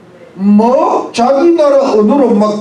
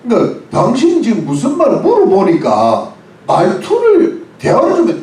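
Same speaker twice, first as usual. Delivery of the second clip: ordinary talk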